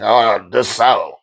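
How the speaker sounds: slow, drawn-out, falling groan of a greeting; unenthusiastic name call. Acted. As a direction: say the name with no zeal. Same name said the other way.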